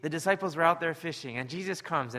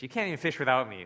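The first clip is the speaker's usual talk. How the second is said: You can't even fish without me, pushed faster and louder; escalating scorn; 5 dB louder, faster than usual. Retold or imitated. Jesus scolds Peter for failing, building mock scorn. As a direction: twist the knife on the repeat. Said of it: "Or is it gonna be like".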